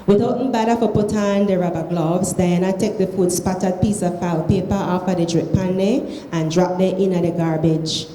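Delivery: reading aloud in Krio; Sierra Leone Creole. Shown as a demonstration. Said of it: "read it in Creole".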